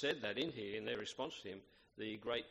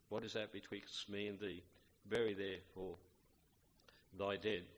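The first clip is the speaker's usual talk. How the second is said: measured, solemn Bible reading; scripture reading. Acted. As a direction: reverent King James reading. Reads scripture aloud.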